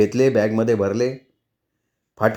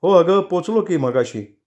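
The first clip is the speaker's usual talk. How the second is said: slow; 6 semitones higher, slower than usual. Acted. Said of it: "एक क्षण थांबला".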